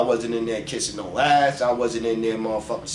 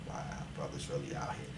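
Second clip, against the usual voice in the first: whispered, much softer wow; awed whisper; 12 semitones lower, 20 dB quieter than usual. Retold or imitated. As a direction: breathe it out in awe. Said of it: "I was like".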